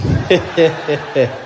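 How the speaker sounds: short, loud staccato put-on laugh; imitated chuckle. Imitating the president shrugging off complaints, staccato chuckle. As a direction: chuckle in even, unbothered pulses. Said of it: "He was our laughing president".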